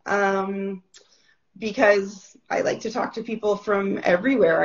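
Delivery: just-woken-up voice, still rough; sleepy early-morning voice; groggy morning voice. Real, not acted. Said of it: "my voice hasn't woken up yet".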